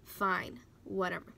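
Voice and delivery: mildly dismissive, dragged-out concession; unenthusiastic husband. Retold or imitated. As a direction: give in reluctantly, imitating the husband. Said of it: "he wasn't so happy about it".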